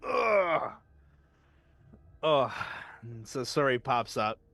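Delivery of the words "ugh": sleepy groan. Acted. Groan on waking.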